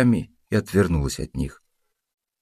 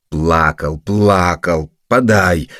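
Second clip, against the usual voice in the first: hasty, rising louder cry of surrender; desperate wail; 4 dB louder, much slower than usual. Acted. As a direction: blurt it out in despair to get the paper back. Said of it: "отчаянно возопил".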